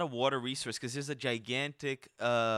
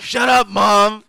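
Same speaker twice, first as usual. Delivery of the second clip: slow, loud, higher whiny yell; mock bratty teen; 7 semitones higher, 14 dB louder, much slower than usual. A mock teenager yelling at his mother, bratty.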